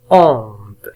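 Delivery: "Honte" with the H unpronounced; "Honte" with no H sound; silent H. Shown as a demonstration. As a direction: say "Honte" starting straight on the vowel. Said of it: "H لا ينطق".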